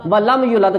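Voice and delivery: یولد said with a short u, not the long uu; ولم یولد clipped, the madd not lengthened; shortened vowel. Shown as a demonstration. Teacher showing the mistake of the short vowel. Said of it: "لمبا کرنا تھا".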